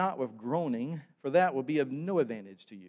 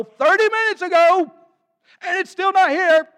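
mock-furious, much higher and louder; imitating an angry guest; 17 dB louder than usual. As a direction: rail like the impatient pastor at the front desk. Impatient guest berating hotel staff.

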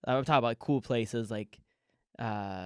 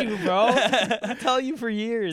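loud gloating retort; 8 semitones higher, 4 dB louder than usual. Retold or imitated. Comic answering the club owner who doubted him, gloating loudly. Acts out gloating reply to Nick.

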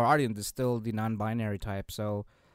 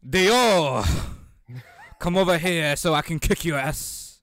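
loud, higher mock French accent; 3 semitones higher, 7 dB louder, slower than usual. Podcaster calling out Dio in French dub, loud French accent. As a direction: shout the challenge as a hammed-up Frenchman. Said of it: "with a French accent in English".

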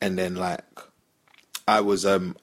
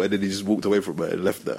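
ordinary delivery

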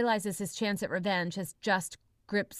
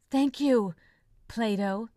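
gasped thanks; 4 semitones higher, 4 dB louder, slower than usual. Acted. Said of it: "Philip gasps".

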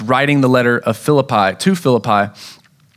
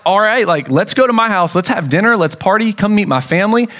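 happy jailer; 6 semitones higher than usual. Retold or imitated. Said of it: "the jailer's like".

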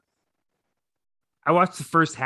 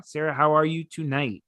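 voice cracking. Real, not acted. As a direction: voice cracks on the words. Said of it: "I felt my voice crack".

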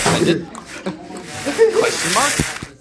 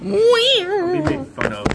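high put-on voice.

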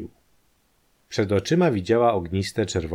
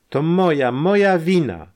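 desperate cry; 9 semitones higher, 6 dB louder than usual. A narrator's reading. Wanda cries out her guilt over her father, in despair. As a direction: wail the blame on herself before fainting. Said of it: "krzyknęła jeszcze rozpaczliwie".

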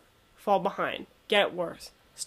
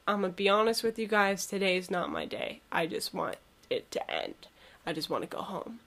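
weary teacher; 2 semitones lower, 5 dB quieter than usual. Retold or imitated. Tired teacher voiced in story.

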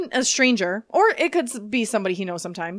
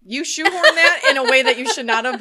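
real laughter through the words, louder; laughing; 2 semitones higher, 6 dB louder than usual. Real, not acted. Teasing co-host over a forced reference, laughing. Laughing at co-host's word play.

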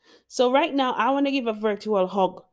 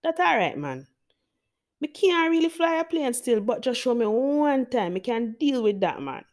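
higher-pitched Jamaican patois, easygoing and confident; Jamaican accent; 4 semitones higher than usual. Retold or imitated. Jamaican job seeker talking the employer into a pilot job, in Jamaican accent. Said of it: "and this is in Jamaican dialect".

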